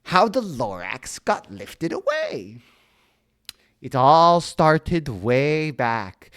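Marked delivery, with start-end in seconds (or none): 3.8-6.3 slow, louder stuffed-up storyteller voice; bees-in-nose voice. Shown as a demonstration. Onceler starting his story, slow and louder with bees in his nose. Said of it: "he's talking like this the whole time 'cause he's got bees in his nose".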